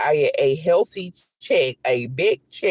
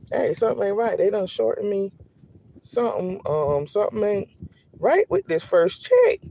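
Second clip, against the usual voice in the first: 높고 느리게 끝나는 의심; rising up in disbelief at the end; mock suspicious disbelief; 4 semitones higher than usual. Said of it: "and I'm thinking".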